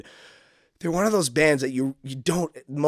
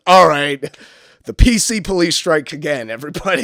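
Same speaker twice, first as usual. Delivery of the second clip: mock crowd address; 3 semitones higher, 7 dB louder than usual.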